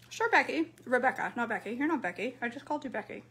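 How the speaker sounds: talking while chewing; mouth full. Real, not acted. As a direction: speak through a mouthful of food. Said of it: "I need to finish chewing".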